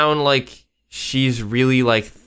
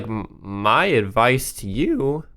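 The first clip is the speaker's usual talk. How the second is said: voice crack; slower than usual. Real, not acted. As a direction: voice cracking mid-phrase. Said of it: "crazy voice crack".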